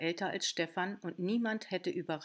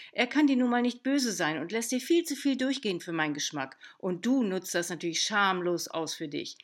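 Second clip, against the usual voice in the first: stern lecture; 5 dB louder than usual. Acted. Aunt lecturing niece.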